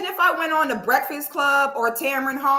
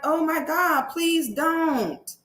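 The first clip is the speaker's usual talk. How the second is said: feeble mock worry; imitated helpless fretting; 4 semitones higher, much slower than usual. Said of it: "looking like".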